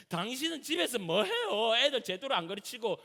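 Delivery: mock accusing outburst at a spouse; lashing out at wife. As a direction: play a nagging, fed-up husband. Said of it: "아내 앞에까지 지랄을 하네".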